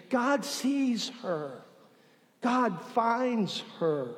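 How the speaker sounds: quiet, deliberate emphasis after the build; slow hushed emphasis. Real, not acted. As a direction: drop the volume and lean on every word.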